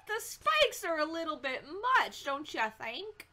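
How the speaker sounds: a lightly affected put-on voice; mildly put-on voice, not quite his own; funny put-on voice. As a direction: slip into an odd mock-casual voice for one line. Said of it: "I don't know why I'm talking like that".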